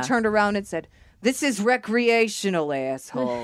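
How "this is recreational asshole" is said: slow, drawn-out mock put-down; blunt retort. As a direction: stretch it out, drop on the insult. Quotes mentor's blunt retort.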